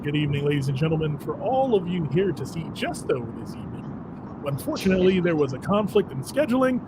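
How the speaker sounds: formal event announcer, a bit fast; lightly voiced stage announcer reading a notice. Shown as a demonstration. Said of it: "I get to do my announcer voice".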